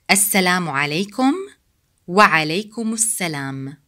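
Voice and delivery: "Assalamu alaikum" linked with no break; "wa alaikumus salam" run as one word. Shown as a demonstration. Teacher repeating greeting and response, each joined. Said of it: "We say them as one word".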